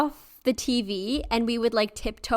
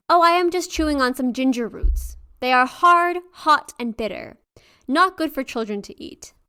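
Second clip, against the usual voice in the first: put-on hurried, slightly louder old woman; quick nervous answer; 4 semitones higher, 4 dB louder than usual. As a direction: cover a lie hastily. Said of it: "hesitated before answering quickly".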